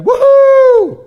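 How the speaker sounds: very high, loud whoop of joy; cheering woohoo. Retold or imitated. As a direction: whoop like you just got running water. Villagers cheering new aqueduct.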